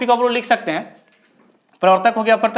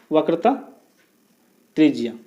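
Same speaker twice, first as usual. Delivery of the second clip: वक्रता and त्रिज्या spoken apart, a long pause between; word by word for note-taking; slow dictation; 5 semitones lower than usual. Shown as a demonstration. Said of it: "तो ये आपका हो गया".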